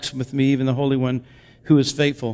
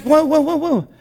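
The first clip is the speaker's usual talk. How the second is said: mock astonished whoa; 11 semitones higher than usual. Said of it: "And you're just like".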